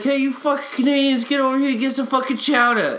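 high-pitched mock yell; yelling vendor. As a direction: holler it like a rowdy tailgate vendor. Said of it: "you don't gotta yell at us".

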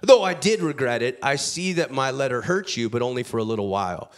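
dismissive shrug. Acted. Preacher voicing Paul's blunt letter, breezy and unapologetic. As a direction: toss off the last phrase fast, like slang for sorry not sorry. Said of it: "he drops this bomb".

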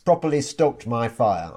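put-on light Yorkshire accent reading a client quote; a hint of broad Yorkshire. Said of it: "I hope you like my Yorkshire accent there".

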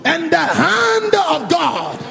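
declaration prayer. Acted. Leads congregation in declaration prayer.

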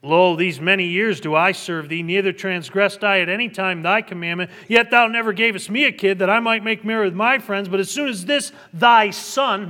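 loud, resentful reading of the complaint; bitter elder brother. Acted. Elder brother complaining bitterly to his father, loud. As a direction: spit out the years of service. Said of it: "you can hear the bitterness in the elder brother's".

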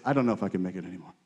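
soft, fast, giving-up mutter; defeated mumble. Retold or imitated. Preacher mimicking the weary doubters in a soft, fast mutter. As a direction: toss off a weary complaint quickly. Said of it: "They're just like".

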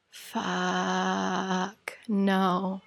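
soft, defeated curse under the breath; quiet despair. Retold or imitated. Quietly cursing to herself at the gate, defeated. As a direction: let it drop out of you, beaten. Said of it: "And I'm just like".

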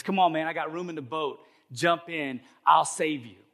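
lightly acted neighbor calling from a boat; hint of a rescuer calling out; urging neighbor. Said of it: "his unsaved neighbor paddles over".

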